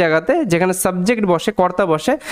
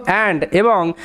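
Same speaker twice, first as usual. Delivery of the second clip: slow demo read; much slower than usual. Shown as a demonstration. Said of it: "উচ্চারণটা অ এর মতো হয়".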